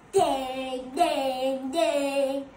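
three long, even dings; steady ringing "ding", moderately strong; imitated bell ringing. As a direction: mimic a bell with drawn-out dings. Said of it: "The wolf rang the bell".

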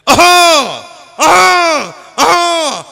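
loud high hawks one after another; repeated mock throat-clearing. Uncle hawking again and again in the back seat, loud mock hawks. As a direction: keep hawking over and over.

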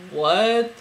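drawn-out, rising what; surprised. Retold or imitated. Reacting to him in her dream, surprised. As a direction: react in mild disbelief. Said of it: "I was so surprised".

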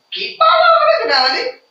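high, delighted gasp of wonder at a long word; wide-eyed marvel for little ones; mock amazement. Teacher to young pupils, marvelling at a long word.

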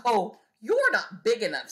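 grouchy bug excusing itself; grouchy dismissal. Acted. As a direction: back down with a sneer. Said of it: "grouchy dismissal".

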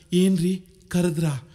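slow, deferential wifely reply; meek wife. Acted. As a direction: answer your husband obediently, taking your time. Obedient new wife answers husband.

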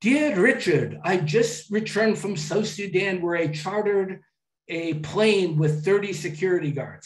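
put-on British accent for an email. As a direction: imitate a British gentleman traveler's email. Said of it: "I'll do my British accent".

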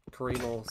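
Kareemel said kuh-REE-mul, for caramel; altered caramel. Shown as a demonstration. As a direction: stress the long ee in Kareemel. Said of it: "some people say caramel".

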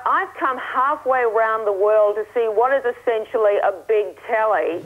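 ordinary talk, nothing marked

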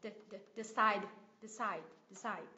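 "De-" weakened to "duh" before CIDE; reduced first vowel. Shown as a demonstration. Teacher showing the schwa option in "decide". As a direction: isolate a schwa "De-", then "decide". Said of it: "biến âm này thành âm xoa sao".

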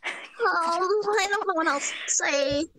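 drowsy pony introducing herself; sleepy Moon Dancer voice. Shown as a demonstration. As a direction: sound like you're about to fall asleep. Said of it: "I'm Moon Dancer".

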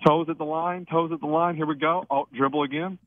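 live free-throw commentary, building to each shot; playful play-by-play. Acted. Radio host calling a caller's free throws, mock sportscaster. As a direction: call every dribble like a courtside announcer.

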